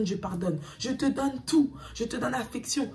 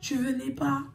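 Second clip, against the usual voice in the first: a higher voice for the friend; voicing the friend; 6 semitones higher than usual. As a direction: lightly play the friend passing a message. (voix de la copine, un peu plus aiguë)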